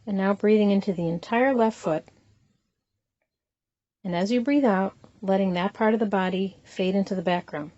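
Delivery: unhurried body-scan guidance with long pauses between phrases; guided meditation. Acted. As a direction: calmly lead them through it, leaving room to breathe.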